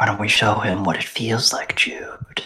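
enticing quiet whisper. Voicing Fennex urging a player to show his power: whispering in someone's ear. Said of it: "Fennex sort of starts whispering in your ear".

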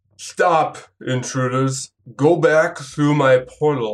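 weird, strange, slurred put-on voice. Describing a voice echoing through the room, then voicing it: slurred, strange voice. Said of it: "It says kind of like in a slurred, strange way".

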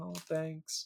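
barely audible, feigned grateful tone. Acting out a feigned thanks for a gift: mock feigned gratitude. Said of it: "trying to feign being impressed or happy".

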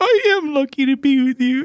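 weak, frail, very high-pitched little voice. Retelling what she told him, in an impression of her voice. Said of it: "what is this impression you're doing?".

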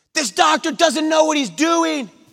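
shrill yell calling out, very high-pitched. Retelling how a mom yelled at a doctor: imitating a mother yelling. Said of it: "the mom yells out and announces".

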